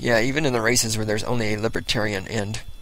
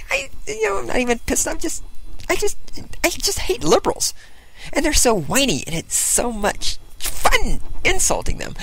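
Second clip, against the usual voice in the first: mock whiny voice. Jokey put-on voice.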